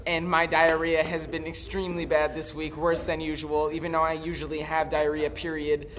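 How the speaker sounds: flat robotic relay voice. Retold or imitated. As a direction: read it like a robot operator. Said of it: "you have to say it like a robot".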